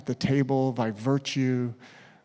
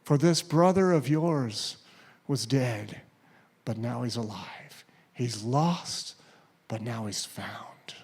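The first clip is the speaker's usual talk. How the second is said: pleading father; 2 semitones lower than usual. Acted. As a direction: plead gently, let it fall to a hush. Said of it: "the father just pleads with him".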